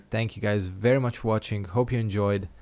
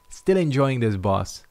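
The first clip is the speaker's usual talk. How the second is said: dry sarcastic drawl, slowed down; 2 semitones higher, 4 dB louder, slower than usual. Real, not acted. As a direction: say it slowly, meaning the opposite. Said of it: "I say sarcastically".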